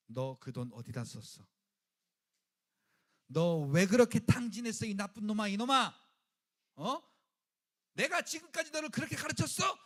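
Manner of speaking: loud scolding father, rising to a yell; angry father. Pretend. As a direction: berate the wasteful son. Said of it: "그 아버지가 만약에".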